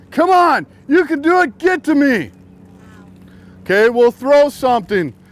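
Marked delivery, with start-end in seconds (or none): 0.2-2.3 pitched-up, urging, cheering-on encouraging call. Showing how to encourage a drowning friend: yelling encouragement. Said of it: "encouragement, yell".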